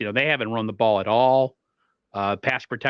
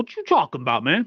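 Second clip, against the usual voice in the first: play-acted annoyed, fed-up, agitated and irritated; 4 semitones higher than usual. Retelling a player's postgame answer to questions: imitating Javon Kinlaw agitated. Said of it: "he's so agitated anytime somebody asks him a question".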